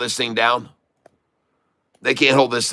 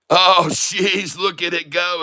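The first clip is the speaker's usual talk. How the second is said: a delighted laugh, voice jumping higher; excited laugh; 5 semitones higher than usual. Real, not acted. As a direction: laugh with glee as the chart takes off. Stock suddenly surging, he laughs.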